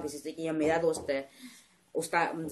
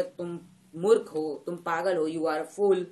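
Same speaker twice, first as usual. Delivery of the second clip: a touch of mock anger, a bit louder; angry; 4 dB louder than usual. Teacher shows how an angry person calls someone a fool, mildly angry. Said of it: "या कोई गुस्से में बोलते".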